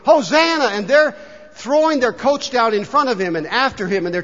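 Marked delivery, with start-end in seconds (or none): 0.1-0.7 high, loud acted shout of praise; jubilant cry. Preacher voicing healed people who run, jubilant cry. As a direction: cry out like someone just healed. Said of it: "walking and running and saying".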